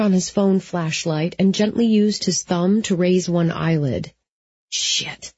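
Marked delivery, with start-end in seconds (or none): 4.7-5.3 breathy whispered swear under breath; whispered curse. A narrator's reading. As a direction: whisper it in shock. Jesse finds bloody eye.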